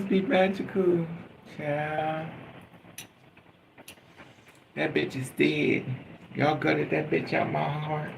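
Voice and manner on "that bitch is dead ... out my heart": ordinary talk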